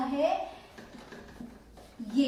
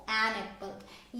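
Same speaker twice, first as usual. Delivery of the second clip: slow demo; 4 semitones lower, 5 dB quieter, much slower than usual. Shown as a demonstration. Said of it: "अगर Apple के direct पहले आया तो".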